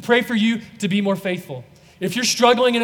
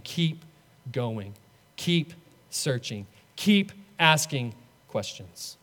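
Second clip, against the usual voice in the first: God's gentle voice; 7 semitones lower, 7 dB quieter, slower than usual. Acted. Voice of God encouraging the doubter.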